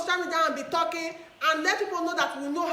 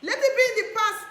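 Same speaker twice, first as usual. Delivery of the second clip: raised, louder repeat; louder insistence; 5 semitones higher, 5 dB louder than usual. Real, not acted. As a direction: push it up with insistence. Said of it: "Whatever anybody have done".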